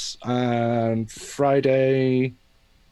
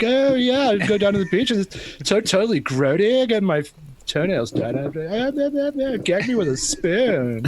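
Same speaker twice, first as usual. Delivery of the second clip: put-on high ditzy valley girl; valley girl princess; 7 semitones higher than usual. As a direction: gush like a spoiled valley girl. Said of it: "this kind of princess".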